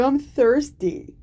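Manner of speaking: slow, whiny little brat; mock whine. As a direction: whimper it like a spoiled kid. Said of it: "crying and whining to Yahweh".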